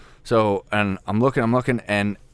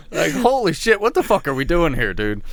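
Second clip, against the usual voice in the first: excited disbelief; 8 semitones higher than usual. Retold or imitated. Retelling the storm in disbelief.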